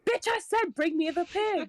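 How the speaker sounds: a drunken hammed-up command from on high; drunk magic command. Drunk Pandora demands the pig in her booming voice. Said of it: "she uses her voice again".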